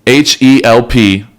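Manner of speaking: measured, scripted podcast ad read; host-read promo with deliberate pauses; sponsor ad read. Real, not acted. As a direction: read the sponsor copy clearly, phrase by phrase. Reads a sponsor message.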